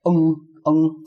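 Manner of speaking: NG, NG hummed as separate nasal syllables; isolated ng sound. Shown as a demonstration. Teacher isolating the ending for learners, NG held out. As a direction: hold each NG on its own. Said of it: "second tone".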